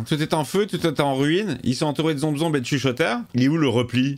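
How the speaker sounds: talking while munching on snacks; words slightly muffled by chewing; crunching chips. Real, not acted. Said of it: "je grignote en même temps". (en grignotant des chips)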